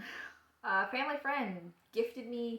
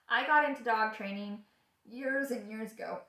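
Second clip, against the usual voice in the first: words broken by a burp; burping while talking; 2 semitones higher, 5 dB louder than usual. Real, not acted. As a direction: talk through a small burp. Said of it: "Excuse me, I'm burping".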